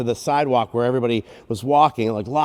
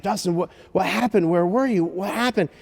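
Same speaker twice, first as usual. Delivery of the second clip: higher-pitched, urgent parent questions; a touch of frantic relief, acted out; worried questioning; 4 semitones higher than usual. Father to crying son just found, worried questioning.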